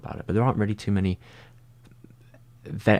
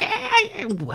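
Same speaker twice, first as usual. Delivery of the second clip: trying out Charlie Day. Retold or imitated. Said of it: "his voice is really high".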